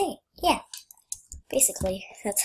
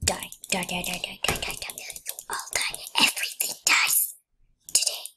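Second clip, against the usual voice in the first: mock villain; 3 semitones lower than usual. Gleeful villain rampage.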